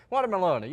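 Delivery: "Watermelon" said as water-muh-LOAN-uh; playful mispronunciation. Real, not acted. Host teasing a player about breakfast fruit, playful mispronunciation. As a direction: end "Watermelon" on a long, silly "lone-uh". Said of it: "Do you say watermelon or watermelon?".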